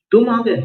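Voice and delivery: astonished, "तुम" punched high; stress on तुम. Shown as a demonstration. Teacher showing a speaker amazed at who came, stress on तुम. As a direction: hit "तुम" high, let "आ गए" follow. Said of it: "तुम पर बलाघात है".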